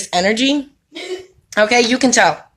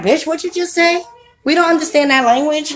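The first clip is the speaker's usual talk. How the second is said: tough clubgoer; 4 semitones higher than usual. Retold or imitated. Imitating people at thug club.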